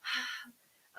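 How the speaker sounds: crying, voice breaking; real tears, words catching; choked up. Real, not acted. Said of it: "that choked me up".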